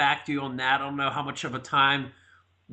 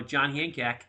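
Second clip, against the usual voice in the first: a light touch of Boston accent; slower than usual. Shown as a demonstration. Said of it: "talking in Boston accent".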